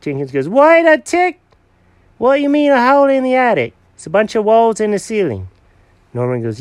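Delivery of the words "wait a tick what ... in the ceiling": high, loud and fast alarmed cat; cat startled by the hole in the attic, high and loud; startled outburst. Acted. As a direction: jump in, alarmed. Jenkins the cat's surprised outburst.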